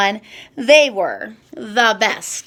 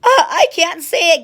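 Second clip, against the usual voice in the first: higher, hammed-up giggly rhinoceros; acted giggling; 6 semitones higher, 4 dB louder than usual. A narrator's reading. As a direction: play at being too tickled to speak. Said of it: "giggled the rhinoceros".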